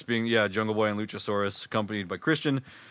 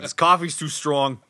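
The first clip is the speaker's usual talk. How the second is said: put-on New York accent; 4 semitones higher than usual. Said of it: "just doing the New York accent".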